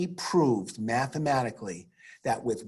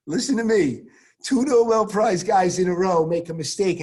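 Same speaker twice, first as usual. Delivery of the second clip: loud emphatic; 5 semitones higher, 7 dB louder than usual. Real, not acted. Teacher calling out to class.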